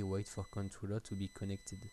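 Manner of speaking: English read with a real French accent; accent anglais approximatif. Real, not acted. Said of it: "avec mon super accent anglais". (anglais lu avec un accent français)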